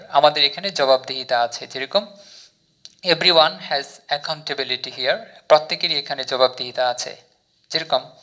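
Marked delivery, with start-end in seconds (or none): 3.0-5.2 very slow, word by word English; slow example sentence. Shown as a demonstration. Teacher reads example sentence to learners, very slowly. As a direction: spell out each word of the model sentence. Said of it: "use করে দেখি কী sentence".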